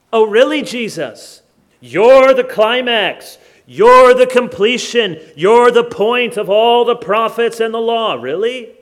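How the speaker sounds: scandalized, emphatic questioning; incredulous challenge. Acted. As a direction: throw the claims back in mock outrage. Acts out scandalized hearer challenging Jesus.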